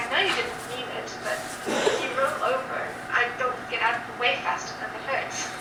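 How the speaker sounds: mild, sheepish apology in character; apologetic. Acted. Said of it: "looking like he's apologetic again".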